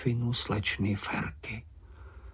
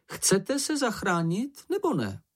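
impatient Snork; 10 semitones higher than usual. A narrator's reading. Snork rapping his pencil. (netrpělivě a pomalu)

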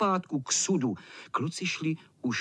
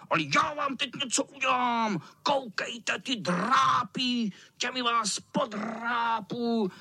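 menacing cat; 8 semitones higher than usual. A narrator's reading. Cat threatens the boys with his claws. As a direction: savour each threat.

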